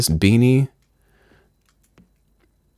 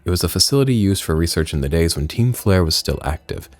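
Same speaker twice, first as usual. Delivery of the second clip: lightly voiced grave storyteller; lower-placed, measured reading of a game villain's account; solemn game character; 4 semitones lower than usual. Reads out game character dialogue.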